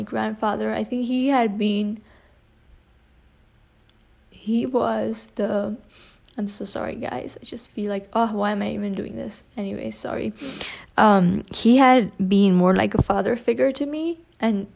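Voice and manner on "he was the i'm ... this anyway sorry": choked up. Real, not acted. Breaks down talking about grandfather.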